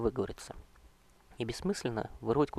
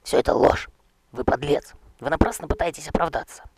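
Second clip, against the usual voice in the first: loud, high outraged yell; shouting; 4 semitones higher, 11 dB louder than usual. Acted. Knight screaming at the king that it is all lies. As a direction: scream the denial at him. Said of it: "А он кричал".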